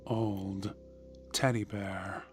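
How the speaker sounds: ordinary delivery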